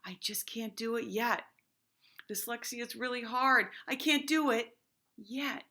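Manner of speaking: teacher modelling the word yet to her class; calm determined. Shown as a demonstration. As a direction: say it like a kid who won't quit. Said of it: "add that word yet".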